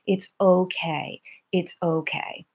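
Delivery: soothing. Shown as a demonstration. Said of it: "the way that you would talk to a friend or you would talk to a baby".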